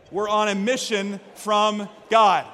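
slow Chicago accent; deliberate Blues Brothers-style Chicago accent. Shown as a demonstration. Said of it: "my best Chicago accent".

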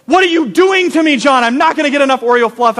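put-on high, panicky kid voice, rushed at the end; panicked kid. A camper pleading with his counselor in high panic. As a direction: squeal it like a desperate eight-year-old.

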